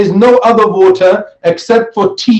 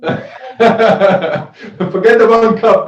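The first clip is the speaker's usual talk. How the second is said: laughing; 2 semitones higher, much slower than usual. Real, not acted. Teacher laughs at student's answer.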